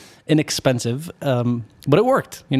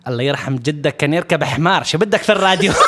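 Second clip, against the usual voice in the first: mock angry; much faster than usual. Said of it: "like, really angry".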